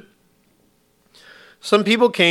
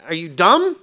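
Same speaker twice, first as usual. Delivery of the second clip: higher, jeering taunt; mocking ridicule; 5 semitones higher than usual. Paid mourners jeering at Jesus, mocking. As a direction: scoff at him like a heckler. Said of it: "they're making fun of Jesus".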